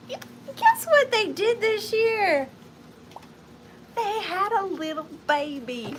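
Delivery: bursting to share the news; excited reveal. Real, not acted. Host tells viewers about the new baby elf, thrilled.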